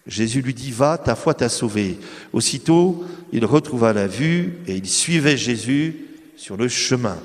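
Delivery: slow, measured scripture reading; Gospel reading. Acted. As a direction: read the passage with solemn care. Reads the Gospel passage aloud.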